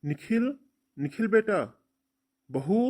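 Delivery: loud high call across the house; father shouting for his son. Acted. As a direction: call the son from another room. Father calling son from afar.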